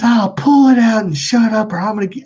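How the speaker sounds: high, loud impatient scolding; imitated yelling mom. Mom ordering her stabbed child, angry yell. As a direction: yell it as a fed-up mother.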